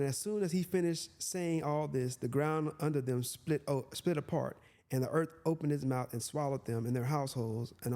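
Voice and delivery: measured Bible reading voice; scripture reading. Acted. Preacher reads the verse to listeners, measured. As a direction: read it out as holy text.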